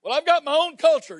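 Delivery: high, loud mocking voice of a proud excuse-maker; mock objector. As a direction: parody someone clinging to their culture.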